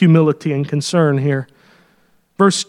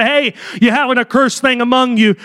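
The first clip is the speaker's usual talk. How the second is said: offhand, shrugging God, tossing it away; careless God; 4 semitones higher than usual. Retold or imitated. Preacher mocks an uncaring God, offhand and casual. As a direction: brush off Israel like it's nothing. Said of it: "I'm glad he didn't just say".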